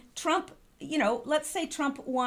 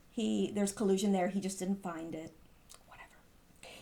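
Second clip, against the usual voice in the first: unvoiced sneer, trailing away; dismissive whisper; 5 semitones lower, 5 dB quieter than usual. Real, not acted. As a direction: drop to a scornful whisper. Dismissive mocking aside.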